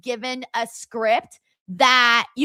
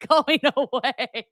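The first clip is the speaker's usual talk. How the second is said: talking through hiccups; hiccupping while talking; slower than usual. Real, not acted. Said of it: "these damn hiccups".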